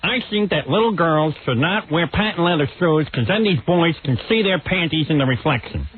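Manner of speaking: mock boring columnist laying down rules; Ann Landers impression. Host imitating the columnist's old talk-show advice, mock prim. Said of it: "She was boring".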